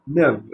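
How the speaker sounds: "nève" said as one sound, nèv; wrong reading. Shown as a demonstration. Teacher showing pupils the wrong reading "nève". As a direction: read "nève" as a single vowel, the wrong way. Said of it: "on aurait lu".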